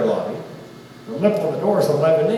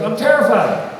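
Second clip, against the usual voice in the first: terrified; 5 semitones higher, 4 dB louder than usual. Retold or imitated. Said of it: "He goes".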